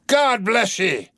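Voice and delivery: a mild slow cry of blessing; half sob, half shout. Acted. Captain blessing the cheering crew, mild half-sob. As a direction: bless them, choked and loud. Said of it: "half sob and half shout".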